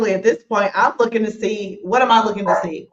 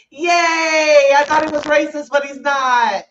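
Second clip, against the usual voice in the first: mock cheer; 5 semitones higher, slower than usual. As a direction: cheer it out half joking. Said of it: "was like".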